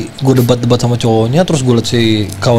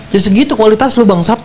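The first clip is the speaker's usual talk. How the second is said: mocking insult through laughter, pitched up; laughing insult; 8 semitones higher than usual. Mocking the boyfriend over money, laughing. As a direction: scoff at him while laughing. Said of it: "gua bilang".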